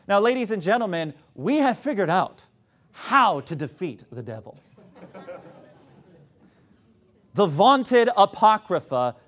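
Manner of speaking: mock-grand pseudo-intellectual lecture; tongue-in-cheek triumphant exposition; sarcastic. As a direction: build a pompous announcement, then drop to a deadpan punchline. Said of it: "I'm about to be a little bit sarcastic".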